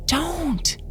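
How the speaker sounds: put-on high, soft frightened child plea; pleading child. A narrator's reading. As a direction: beg in a hushed child voice. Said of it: "still whispering".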